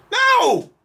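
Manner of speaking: high, loud shouted no; yelped no; emphatic no. Real, not acted. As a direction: shut the idea down hard. Rejecting the mocked idea.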